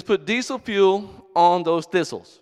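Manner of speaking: slow, emphatic know-it-all brother; lightly voiced brother handing out advice; mimicking brother. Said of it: "So he says".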